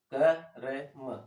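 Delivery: क र म spelled out very slowly, sound by sound; क र म, each sound said slowly and separately; split into sounds. Shown as a demonstration. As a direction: pull क र म apart, one sound at a time. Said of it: "अब इसको जल्दी से बोले".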